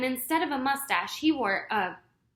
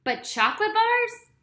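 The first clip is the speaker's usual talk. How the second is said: angry; 11 semitones higher, 6 dB louder than usual. A narrator's reading. Lefty angry continuing.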